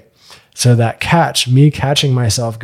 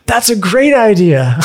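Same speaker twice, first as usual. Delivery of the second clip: mock-thrilled yes, pitched way higher and slow, laughing through it; laughing delight; 9 semitones higher than usual. Date jumps at the bath idea, laughing and high-pitched. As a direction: imitate her lighting up, giggling as you say it.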